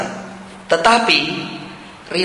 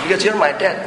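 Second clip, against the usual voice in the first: higher-pitched imitation of a little boy; lightly voiced child, pitched up; child's simple answer; 4 semitones higher than usual. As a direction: answer dad like a trusting kid. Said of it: "Dia cuma jawab".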